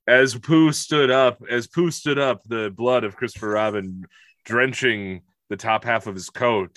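grim folk-tale narration, hammed-up; mock storyteller. Telling how Pooh feasted on Christopher Robin, mock-dramatic storytelling. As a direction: intone it like a gory bedtime story.

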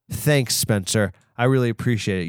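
ordinary delivery

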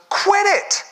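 very high loud yell, slowing on don't do that; laughing through a hammed-up shout; comic yell. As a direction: bellow it at her, over the top. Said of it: "He goes".

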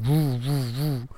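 soft mock lightsaber whoosh; lightsaber noise. Kid at play making lightsaber noises, soft. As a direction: hum it like a kid with a toy sword. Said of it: "making the lightsaber noise".

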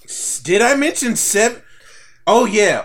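high, loud sudden surprise; surprised. Real, not acted. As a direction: caught off guard, pitch jumps up. Surprised at own count.

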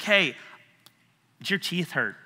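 modest, conversational check-in; casual asking. Shown as a demonstration. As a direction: ask it simply, like checking in with someone. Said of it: "I will ask a question like".

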